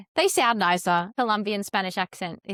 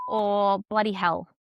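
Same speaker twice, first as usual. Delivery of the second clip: Australian swear; 3 dB louder, slower than usual. Shown as a demonstration. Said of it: "So I would say".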